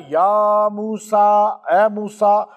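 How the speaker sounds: very slow, stretched یا موسیٰ; slow solemn call. Acted. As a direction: draw the divine call out, echoing. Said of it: "جب اللہ نے کہا نا". (آہستہ، گونجتی ہوئی پکار)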